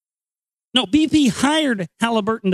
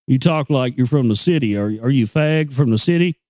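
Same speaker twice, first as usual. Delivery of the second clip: hillbilly local; 6 semitones lower than usual. Retold or imitated. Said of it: "hillbilly, podunk places".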